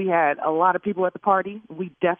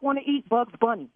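high, heated insults; angry, pitch jumping on stupid; furious; 5 semitones higher than usual. Real, not acted. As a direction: threaten him like you mean it. Caller threatens attorney, still furious.

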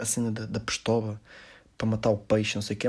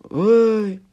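retold loud hi; 11 semitones higher, 8 dB louder than usual.

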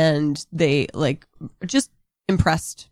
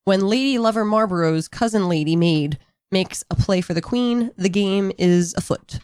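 dramatic rundown read. Acted. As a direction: read it like a movie trailer. Reads the rundown over music.

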